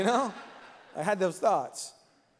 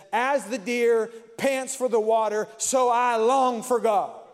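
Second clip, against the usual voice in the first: longing psalm quote; 3 semitones higher, 3 dB louder than usual. Retold or imitated. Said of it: "and he says".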